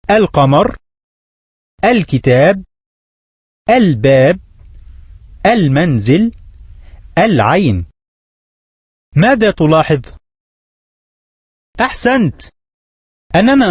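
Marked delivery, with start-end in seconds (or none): 0.1-7.9 القمر with a clear, sounded L after the a; each word carefully sounding the L of ال, as in القمر; moon lam pronounced. Shown as a demonstration. Teacher modelling the moon words for students, carefully sounding the L. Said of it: "ثم انطقها".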